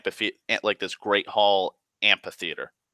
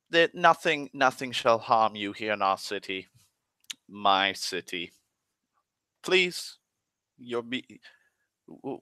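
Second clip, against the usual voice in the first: honeyed host voice, soothing the guests; smooth elf king. Retold or imitated. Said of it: "he turns to you and goes".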